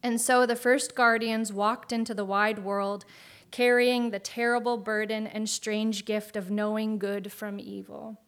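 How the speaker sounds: grand storybook narration; epic fantasy narrator. A narrator's reading. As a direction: tell it like an old legend. Reads an AI fantasy story aloud.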